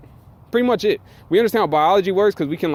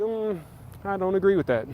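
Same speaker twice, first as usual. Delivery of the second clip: higher, softened objection; mock contrarian; 4 semitones higher, 5 dB quieter than usual. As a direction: mimic a doubtful objector in a small raised voice. Mimics someone denying an obvious tree.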